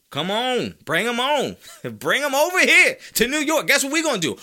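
high, loud hyped-up summons; excited, high-pitched shout of welcome; rallying holler. Pretend. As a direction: holler like a fired-up fan calling him in. Rallying cry to bring player over.

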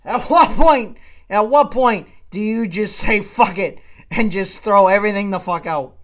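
real exasperation at home cooking going to waste; exasperated outburst. Real, not acted. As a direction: throw up your hands and let it rip. Exasperated rant about wasted cooking.

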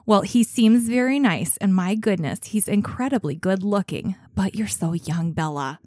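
lightly voiced Minnesota mom, folksy accent. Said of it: "do my Minnesota mom accent".

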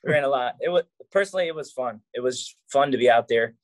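out of breath. Real, not acted. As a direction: still winded after the match. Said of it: "I'm still catching my breath".

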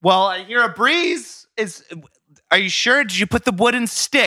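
lightly put-on nagging mom; impression of his mom. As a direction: fret at your son as a doubtful mom. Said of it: "You be your mom".

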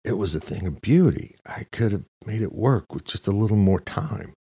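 wistful Gomes. A narrator's reading. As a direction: mourn the work like talking to the dead. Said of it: "as if talking to a dead man".

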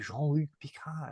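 gently mock-French "Jean-Luc Picard"; French accent. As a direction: say the name the way the French would. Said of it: "that's how the French would".

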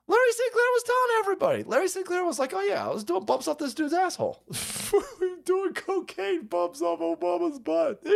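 excited. Real, not acted. High excited storytelling.

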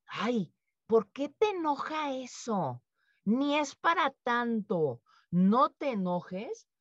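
slow, drawn-out belittling calm-down; dismissive soothing. Pretend. Someone telling an angry person it is nothing, slow and dismissive. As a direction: minimize her anger, taking your time. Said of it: "llega alguien y me dice".

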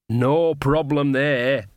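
mildly cheerful, drawn out; slow, breezy reassurance. Acted. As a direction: say it with easy good cheer. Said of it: "said Nanny cheerfully".

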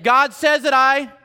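slow and rising to a firm declaration; simple obedient prayer. Retold or imitated. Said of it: "it's like".

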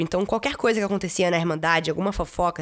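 usual speaking voice

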